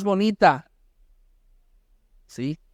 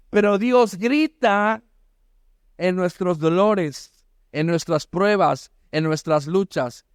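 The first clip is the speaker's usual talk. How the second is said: solemne y lento; 2 semitones lower, slower than usual. Acted. Sermon climax, slow solemn lines.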